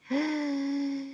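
long, high indrawn breath; drowsy intake before speaking; sleepy breath in. A narrator's reading. The Dormouse gathering itself, sleepy gasp.

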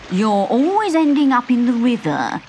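sniggering frog. A narrator's reading. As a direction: tease like a smug storybook frog. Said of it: "sniggered the frog".

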